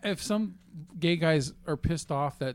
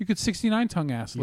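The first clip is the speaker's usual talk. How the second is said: ordinary talk, nothing marked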